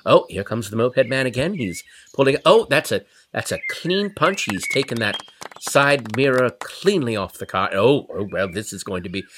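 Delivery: low, hushed golf commentator; golf announcer voice. Pretend. Watching the fight from the back seat, hushed golf announcer. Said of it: "in my golf announcer voice".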